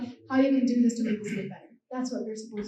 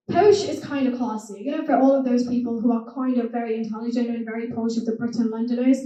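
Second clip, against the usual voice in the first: posh British accent. Shown as a demonstration. Showing the audience how posh Londoners talk, posh accent. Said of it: "posh accent".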